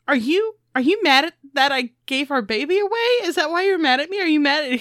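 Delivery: high, quick, anxious questioning; mock marital pestering. Wife fighting with husband over baby, mock pestering. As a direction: pester a spouse with rising questions.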